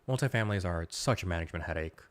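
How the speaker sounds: talking through a cough; cough, then push on talking; coughing fit. Real, not acted. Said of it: "Sorry I'm coughing so much".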